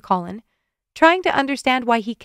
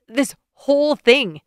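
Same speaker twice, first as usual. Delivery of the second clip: 1 gasping laugh; 4 semitones higher, 5 dB louder, slower than usual. A narrator's reading. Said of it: "he gasped".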